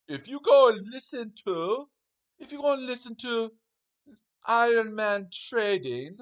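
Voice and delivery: mock royal edict in a booming English voice; Brian Blessed bellow. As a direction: bellow it like a pompous English lord. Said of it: "in a deep, bellowed English accent like Brian Blessed".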